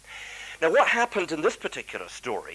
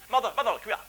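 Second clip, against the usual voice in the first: put-on high, urgent child's call for his mother; boy calling mother; 8 semitones higher, 3 dB louder, much faster than usual. Boy calls his mother from the corridor, high and urgent. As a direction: call her over like an anxious boy.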